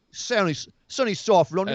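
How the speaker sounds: light Cockney twang; Cockney accent. Retold or imitated. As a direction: lean into Sarf London. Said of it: "It's Cockney".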